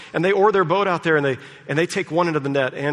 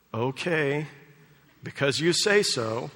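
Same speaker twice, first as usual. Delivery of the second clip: reluctant dread. Retold or imitated. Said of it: "You can just hear the sort of dread in it".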